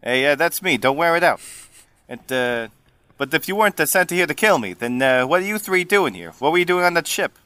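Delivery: put-on New Jersey-flavoured Italian accent; Giuseppe. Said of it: "Italian is gonna sound New Jersey".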